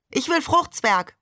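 put-on demanding little child. A narrator's reading. Seestern asks for a different dessert, demanding little child. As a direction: pipe up like a child wanting a treat.

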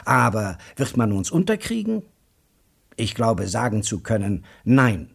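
a keen talker carrying two stunned men along; hammed-up enthusiast; excited lecturer. Joe Welling continues.

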